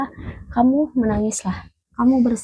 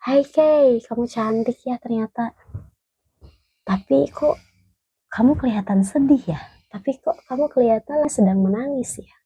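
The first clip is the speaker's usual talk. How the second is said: higher, tender words to her own reflection; gentle self-talk; 4 semitones higher than usual. Retold or imitated. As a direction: coax yourself kindly in the mirror. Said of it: "Kamu lihat muka kamu, tatap muka kamu".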